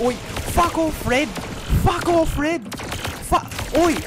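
mock Australian taunt; mock Aussie. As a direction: bark it like a rough Aussie. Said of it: "speak in random accents now".

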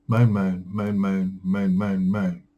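monotonous self-mocking chant; mock moaning. Shown as a demonstration. Vlogger mocking their own complaining, droning moan. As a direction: drone the word over and over. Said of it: "I could moan on and on".

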